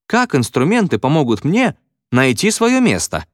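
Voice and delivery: high-pitched schoolboy exclamation; exclaiming pupil. A narrator's reading. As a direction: call it out as a pupil's question to the class. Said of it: "воскликнул какой-то ученик".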